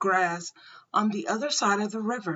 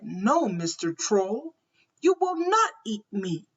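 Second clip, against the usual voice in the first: unafraid firm. Acted. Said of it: "was not afraid".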